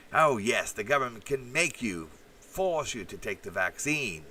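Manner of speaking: lightly mimicked lawyer with a lilting delivery; hint of a mock lawyer, opening emphatically; Dershowitz. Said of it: "that Dershowitz lawyer".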